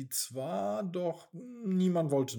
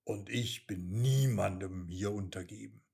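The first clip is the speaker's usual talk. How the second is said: lower, unimpressed rat; cool rat; 6 semitones lower, 3 dB louder than usual. Acted. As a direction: refuse to bow, calm and sly. The rat answers coolly. (tiefe, gelassene Ratte)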